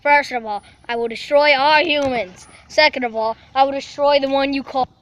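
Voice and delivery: slow, deliberate would-be world ruler; cartoon villain cat. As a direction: announce an evil plan, drawing out the key words.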